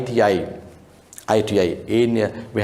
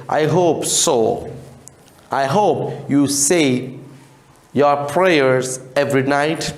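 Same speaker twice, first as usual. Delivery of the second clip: gruff voice; slower than usual. Acted. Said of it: "in a gruff voice".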